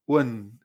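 "Wen" with the e kept very small; tiny e. Shown as a demonstration. Teacher demonstrating to learners, "Wen" with a tiny e. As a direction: say "Wen" low, e squeezed between u and n. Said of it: "Esa E es muy, muy pequeñita".

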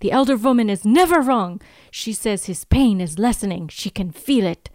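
put-on a grave warning in a half-Russian accent. The villain tells Jenny the signs, mild Russian accent. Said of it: "hear me try to do an accent".

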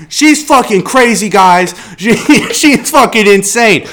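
mock pleading. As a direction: plead with the town, half laughing. Himself pleading to the town.

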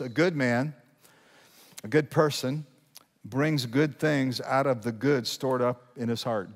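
measured scripture reading, pausing between phrases; slow, emphatic reading. Real, not acted. Pastor reading the verse to the congregation, slowly with emphasis. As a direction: read it slowly, weighing each phrase. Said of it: "read this slowly with emphasis".

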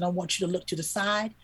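tender plea. Retold or imitated. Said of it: "I said".

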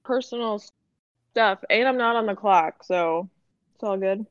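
muffled, like talking underwater; bad connection, muffled underwater sound. Real, not acted. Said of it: "is that why you sound like you're underwater".

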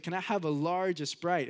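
put-on Mexican-accented grandpa, E before "Sprite"; grandpa's Mexican accent. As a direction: order in a lightly imitated Mexican accent. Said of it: "he would add an E at the beginning of everything".

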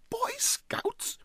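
high, whispered disbelief; aghast. Acted. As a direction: gasp it in shock. Huddle aghast.

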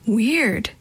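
usual speaking voice

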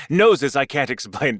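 "Noses" with a long o instead of "noises"; misread as noses. Shown as a demonstration. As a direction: slowly savour the wrong word, "Noses". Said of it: "I know you meant noises".

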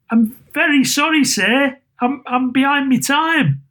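high, apologetic, stammering voice; nervous underling making excuses; timid clerk. A narrator's reading. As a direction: plead meekly, pitched right up. Frightened clerk apologises to boss.

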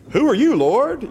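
high, loud urgent cry; startled shout to the Lord. Shown as a demonstration. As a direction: cry out, desperate and shaken. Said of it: "it was a little more urgent".

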